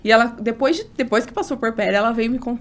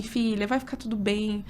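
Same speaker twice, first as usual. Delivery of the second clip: soft retold reassurance; gently reassure, voice lowered in volume; quiet, tender imitation of comforting; reassuring mother; 6 dB quieter than usual. Retells mother reassuring her.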